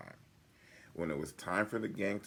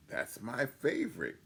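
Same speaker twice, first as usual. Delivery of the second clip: said with a smile; a happy, pleased lift; smiling; 7 semitones higher than usual. A narrator's reading. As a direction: smile through the line. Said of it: "Goob smiled".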